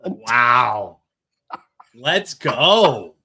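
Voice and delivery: loud, excited cheer; real delight at the story. Real, not acted. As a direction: whoop it up for her. Cheering co-host's funny story.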